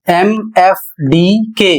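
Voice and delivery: slow letter-by-letter spelling; spelled out. Shown as a demonstration. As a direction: read each letter slowly and clearly. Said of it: "जब किसी शब्द में एएल के बाद".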